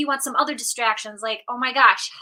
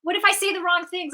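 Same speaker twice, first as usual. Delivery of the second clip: anxious inner voice; 5 semitones higher, faster than usual. Retold or imitated. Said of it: "you get nervous".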